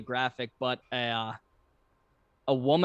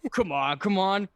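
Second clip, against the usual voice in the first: urgent cartoon muttering; 6 semitones higher, 4 dB louder than usual. Voicing cartoon character at cookie dough.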